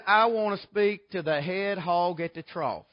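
slow, deliberate caller's request; imitated caller. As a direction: lightly voice a man on the phone. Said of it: "this fella says".

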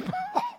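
a sudden high burst of laughter; surprised laugh. Retold or imitated. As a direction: laugh out in disbelief. Taliban man amazed by prayer.

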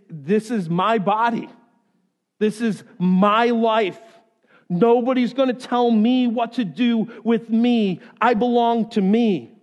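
defiant, emphatic claim of self-ownership; acted defiance. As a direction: insist on it, hammering my and me. Acted self-willed person asserting independence.

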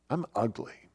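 bleak self-talk. Acted. Preacher voices the scary things we tell ourselves, quiet and bleak. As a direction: quietly voice a defeating inner monologue.

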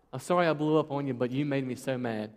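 apology that turns into blame; mock sorry, quick and at normal volume; excuse-making apology. Shown as a demonstration. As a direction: say sorry briskly, then shift the blame. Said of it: "Don't ever say but".

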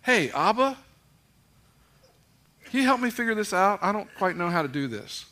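intimate. Retold or imitated. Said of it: "He's my dad".

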